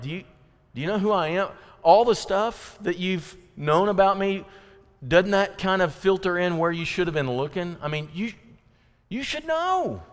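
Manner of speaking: rebuke. Retold or imitated. Young Jesus rebuking his mother, high and mildly scolding. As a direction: needle her like a knowing kid. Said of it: "he kind of rebukes her".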